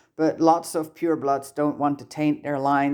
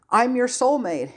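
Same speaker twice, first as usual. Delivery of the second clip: desperate plea; 9 semitones higher than usual. A narrator's reading. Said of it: "a desperate attempt to appease the boy".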